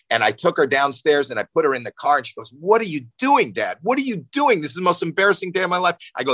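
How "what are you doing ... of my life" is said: high, whiny-teen style protest, imitated; mortified daughter. Daughter put in dad's car after class, imitated mortified protest. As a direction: act out a mortified kid protesting to dad.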